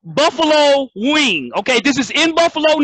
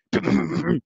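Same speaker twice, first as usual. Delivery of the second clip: sputtering engine noise; 6 semitones lower, 7 dB quieter than usual. Retold or imitated. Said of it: "He sounded like this".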